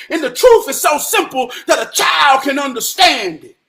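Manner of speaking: emphatic, rolling preacher cadence; impassioned preaching. Real, not acted. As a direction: press the truth on the crowd. Preaches about children and truth.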